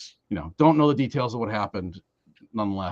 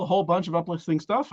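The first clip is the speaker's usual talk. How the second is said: higher-pitched mock-cheery sarcasm; dryly ironic, rising finish; sarcastic; 4 semitones higher than usual. Real, not acted. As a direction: say it with tongue-in-cheek brightness, pitch lifting at the end. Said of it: "I say that with full sarcasm".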